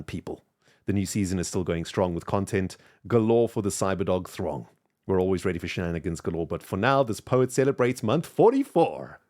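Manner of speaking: theatrical verse reading, building to a big finish; poem recital. Acted. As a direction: declaim a rhyming verse with punchy stresses. Reads out viewer's rhyming message.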